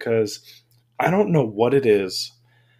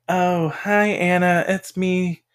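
imitating a chummy scammer, higher pitch; fake friend scammer; 7 semitones higher, slower than usual. Scammer pretending to know Anna, higher mock voice. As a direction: greet her like an old friend, voice raised. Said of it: "And they're like".

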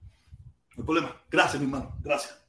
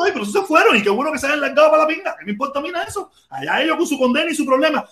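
scornful; 5 semitones higher, faster than usual. Real, not acted. Dismissing people who left.

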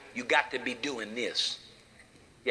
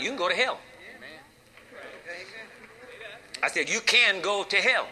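shock emphasis; 5 semitones higher than usual. Acted. Preacher repeats for shock.

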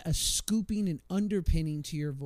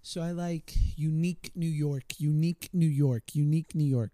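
crisp, rhythmic "Unique New York" repeated; tongue twister warm-up; 4 dB louder than usual. Shown as a demonstration. Asked for his go-to warm-up, he drills the twister. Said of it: "what's your go-to vocal warm-up".

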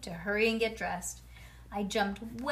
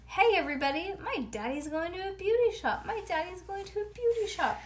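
high, gleeful crowing; excited announcing; 9 semitones higher than usual. A narrator's reading. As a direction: call it out to everyone like a tickled kid. Child announcing it to everyone.

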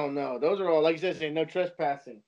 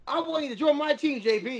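mock recruiting pitch; 6 semitones higher than usual. Trent's recruiting pitch voiced.

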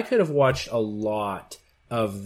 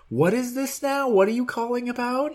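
high, puzzled officer voice; confused police officer; 11 semitones higher than usual. Retold or imitated. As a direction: play a baffled foreign cop. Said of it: "Portuguese police respond".

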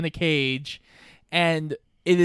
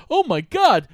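the park ranger spotting the lost pets, way overacted; over-the-top ranger; 12 semitones higher than usual. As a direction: ham it up like a bad actor. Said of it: "a very over-the-top voice".

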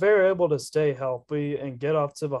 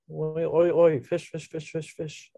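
put-on Australian accent; 2 semitones higher than usual. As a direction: play a cartoonish Aussie, chanting nonsense. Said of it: "I can only do Australian".

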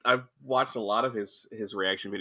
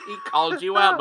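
laughing; 10 semitones higher than usual. Real, not acted. Laughing at friend's story.

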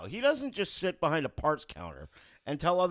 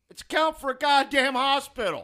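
high, loud incredulous shout; exasperated outburst; 9 semitones higher, 9 dB louder than usual. Acted. Imagining someone checking the suspended account, exasperated. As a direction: burst out as if stating the obvious.

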